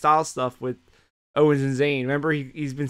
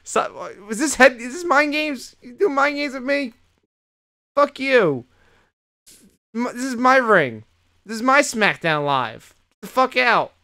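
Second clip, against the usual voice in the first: much higher and louder, ranting as the wrestler; hammed-up angry wrestler promo; mock furious rant; 10 semitones higher, 6 dB louder than usual. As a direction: tear into him as the champ. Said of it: "I was like".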